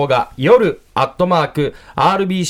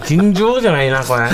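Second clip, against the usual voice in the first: laughing. Real, not acted. Reacting to super sour candy.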